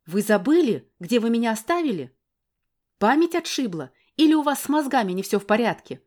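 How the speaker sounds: woman shouting insults at the man; furious shouting. Acted. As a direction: tear into him with scorn.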